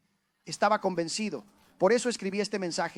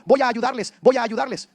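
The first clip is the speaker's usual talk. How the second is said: eager; 4 semitones higher, 9 dB louder than usual. Retold or imitated. Eager young believer voiced.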